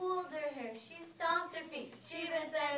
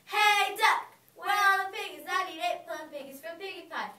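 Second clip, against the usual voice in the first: witch shouting; 3 semitones higher, 8 dB louder than usual. Acted. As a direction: yell across the farmyard. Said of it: "the old ogre shouted to the duck".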